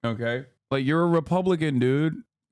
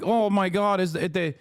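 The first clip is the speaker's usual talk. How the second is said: mock whining; 3 semitones higher than usual. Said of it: "he's like".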